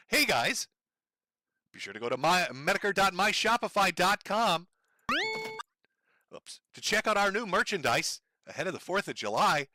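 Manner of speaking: a light parody of a streamer plugging merch; lightly hammed-up influencer ad read; mock sales pitch. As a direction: hawk the merch like a cheesy streamer. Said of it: "little example of how this works".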